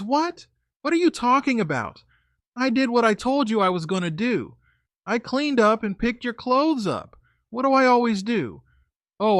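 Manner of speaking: high, indignant protest; girlfriend voice. Retold or imitated.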